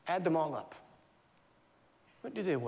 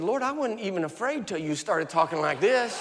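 louder rueful protest through a laugh; 4 semitones higher, 6 dB louder than usual. Retold or imitated. Preacher joking he was fine until God spoke, laughing. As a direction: complain to God half laughing.

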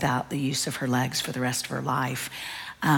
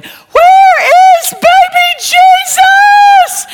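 put-on very high, very loud, drawn-out child's shout; hammed-up kid screaming, slow and much louder; yelling child; 19 dB louder, much slower than usual. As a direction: holler it like a frantic little girl. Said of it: "Abby yelling".

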